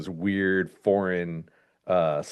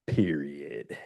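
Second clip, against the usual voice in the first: whispered; 6 semitones lower, 7 dB quieter than usual. Real, not acted. Dramatic punchline after reading synopsis.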